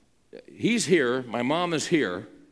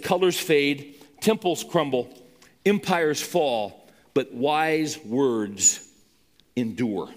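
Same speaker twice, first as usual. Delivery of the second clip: slow recitation; slower than usual. Shown as a demonstration. Reciting a quotation.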